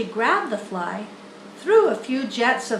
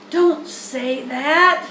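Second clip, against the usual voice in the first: slow, louder pained groan; 3 semitones higher, 6 dB louder, much slower than usual. Acted. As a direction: drag it out in dismay. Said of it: "groaned Wilbur".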